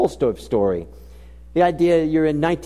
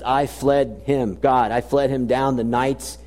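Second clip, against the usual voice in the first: poem recital; 3 semitones lower than usual. Shown as a demonstration. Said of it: "it's what he says".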